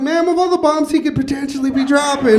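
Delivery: loud slow comeback; loud deadpan retort. Retold or imitated. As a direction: fire back with a slow punchline. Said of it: "I'm just like".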